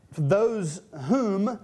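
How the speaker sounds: "whom" drawn out and set apart; slow down and lean on "whom"; stress on "whom". Real, not acted. Preacher reads Romans to the congregation, "whom" slowly emphasized. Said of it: "I'm emphasizing the word whom".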